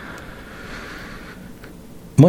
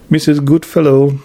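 higher, called out across the waiting room; calling out a name; 5 semitones higher than usual. A narrator's reading. Receptionist calls the next patient, mild call. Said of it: "kiáltotta missus Leach".

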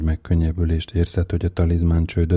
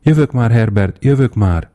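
high, loud call toward the door; 5 semitones higher, 5 dB louder than usual. A narrator's reading. Mother calling to her son at the door, loud. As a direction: call out to him across the house.

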